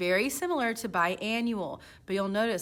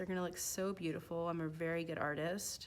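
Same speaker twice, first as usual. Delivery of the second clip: sarcastic, mock-boastful, self-praising tone; 3 semitones lower, 9 dB quieter than usual. While drawing a bicycle on the picture, sarcastic. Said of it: "I'm being sarcastic".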